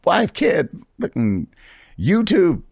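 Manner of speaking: real excitement; excited list. Real, not acted. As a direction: rattle off the wins. Excitedly listing achievements.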